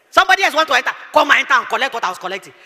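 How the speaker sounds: mocking while laughing. Real, not acted. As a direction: laugh through the words. Laughing mockery.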